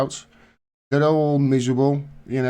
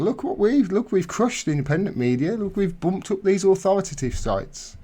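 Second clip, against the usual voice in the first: gloating; 5 semitones higher than usual. Retold or imitated. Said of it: "they're actually gloating".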